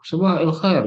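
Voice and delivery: "sabah el khair" in a colloquial Arab lilt; Arab intonation. Shown as a demonstration. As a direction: say "sabah el khair" as Arabs chat. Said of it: "intonasi cara dia ngomong".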